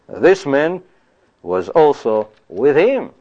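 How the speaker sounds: slow, deliberate and sure, stress on him; lightly voiced servant girl, certain; certain accusation. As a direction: state it as fact, no doubt. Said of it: "she knows for sure".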